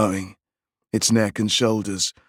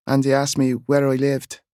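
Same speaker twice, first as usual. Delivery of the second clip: put-on higher, small boy confessing; little boy voice; 4 semitones higher than usual. A narrator's reading. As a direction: tell it like a child. Boy tells aunt.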